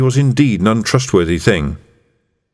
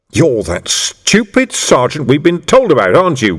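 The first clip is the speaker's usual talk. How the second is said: growled; 5 semitones higher than usual. Acted. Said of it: "growled the man".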